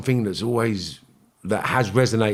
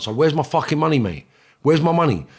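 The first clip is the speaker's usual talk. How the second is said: raised, forceful demand for his money, a touch higher; menacing demand; 5 semitones higher than usual. Retold or imitated. Debt collector confronting the man who owes him, menacing and raised.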